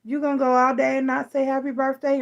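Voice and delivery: indignant self quote. Retold or imitated. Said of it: "I'll be like".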